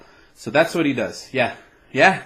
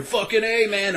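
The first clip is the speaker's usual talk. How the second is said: American bro voice; 8 semitones higher than usual. Retold or imitated. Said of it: "and you hear".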